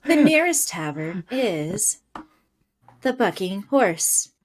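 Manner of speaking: flat voice assistant; robot voice. Acted. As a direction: read it like a GPS. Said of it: "I really like your robot voice".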